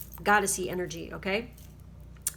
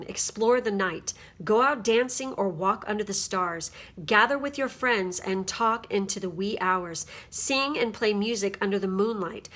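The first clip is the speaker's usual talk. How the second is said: card reading. Acted. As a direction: read the card's words out like an oracle.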